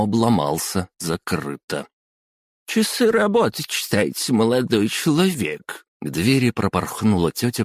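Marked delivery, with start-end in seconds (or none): 2.7-5.8 high shrill scolding auntie; squeaky bossy woman. Acted. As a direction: scold him in a squeaky official voice. Officious clerk scolds from behind door.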